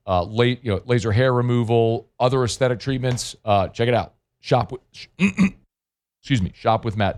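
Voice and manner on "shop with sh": hoarse, catching throat; frog in throat. Real, not acted. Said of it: "Just had a frog in the throat".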